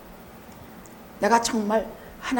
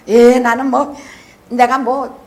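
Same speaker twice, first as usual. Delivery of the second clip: flippant reply; 5 dB louder than usual. Retold or imitated. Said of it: "막 이따위 방정맞은 소리".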